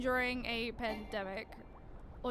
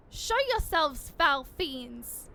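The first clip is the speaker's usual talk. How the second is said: heroic challenge; 2 semitones higher, 4 dB louder, slower than usual. Acted. Game character line.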